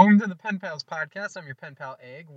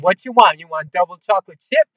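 rattling off cookie choices, louder and higher; an overexcited worker listing options; eager worker; 3 semitones higher, 7 dB louder than usual. Retold or imitated. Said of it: "She's like".

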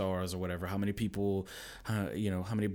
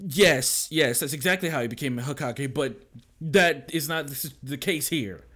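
higher, louder mock pep talk; Naruto pep talk; 6 semitones higher, 6 dB louder than usual. Dad to raging kid, mock inspirational speech. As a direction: lecture like an anime mentor. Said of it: "it's like".

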